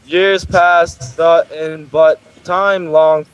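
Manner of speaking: flat robotic reading voice. Acted. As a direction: read it like a robot, monotone. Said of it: "I literally sounded like a robot reading that".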